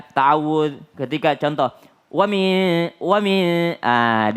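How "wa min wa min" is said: WA MIN with the hum cut short; rushed. Shown as a demonstration. Teacher showing a too-quick wa min, clipped short. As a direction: hurry through WA MIN. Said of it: "dipercepat ya".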